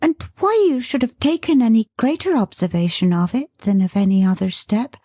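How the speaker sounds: high, hurried nervous chatter; flustered chatter. Acted. Dot covering her agitation before the son appears, hurried. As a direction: keep talking to hide the nerves. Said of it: "talking on as fast as she could".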